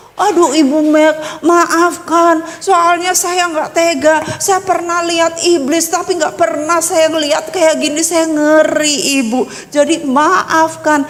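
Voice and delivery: retold pleading apology, drawn-out words; mildly acted, imploring apology; apologetic pleading. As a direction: imitate someone begging forgiveness. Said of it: "minta maaf bolak-balik".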